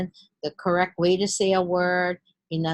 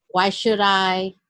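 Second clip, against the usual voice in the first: mock grudging; 4 dB louder, slower than usual. Shown as a demonstration. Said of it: "negative verbal language like".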